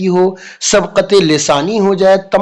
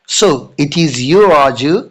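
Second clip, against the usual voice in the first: teacher's surprise; 2 semitones lower, much slower than usual. Retold or imitated. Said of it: "तो teacher क्या बोलती है".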